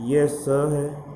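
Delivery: ये स है drawn out, slow and clear; slow explaining. Shown as a demonstration. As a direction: spell the letter out slowly for the class. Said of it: "मैं थोड़ा सा आपको स्पष्ट कर दूं". (धीरे-धीरे समझाते हुए)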